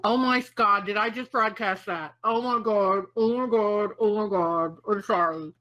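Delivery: real mortified oh-my-God, repeated and sinking; embarrassed run of oh-my-Gods; mortified apology. Real, not acted. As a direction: realise your slip and apologise, embarrassed. Realises she cussed on open broadcast.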